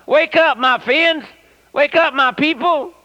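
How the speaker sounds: loud high shouted wake-up call; shouting. Acted. Preacher to his drowsy congregation at services, shouting. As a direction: cry out at full pitch to rouse the congregation. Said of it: "stand back and shout".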